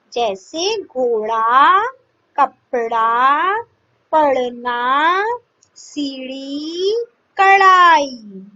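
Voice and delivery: ड़ in कपड़ा and ढ़ in कढ़ाई slowly flapped; flapped consonants. Shown as a demonstration. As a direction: drag out each flapped ढ़. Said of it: "ड़ और ळ का भी समावेश". (ड़ और ढ़ को धीरे-धीरे उछालकर बोलना)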